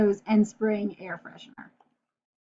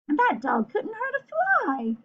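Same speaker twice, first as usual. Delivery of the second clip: whispering burglar; 8 semitones higher than usual. Acted. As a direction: coo over the harmless dog. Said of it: "whispered one burglar".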